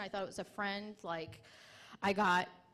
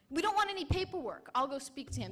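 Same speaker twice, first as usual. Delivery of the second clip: mock the corporal's line, higher and louder; 5 semitones higher, 3 dB louder than usual. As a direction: sneer at his excuse. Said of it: "he was like".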